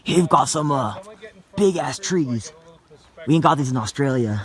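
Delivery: mock Australian nature-show host; Australian accent. Explorer showing viewers big trees, in an Australian accent. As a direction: present it as an Aussie explorer. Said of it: "Can you speak in an Australian accent".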